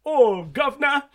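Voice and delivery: loud, high cartoon British accent; thick British accent. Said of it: "he has a thick British accent".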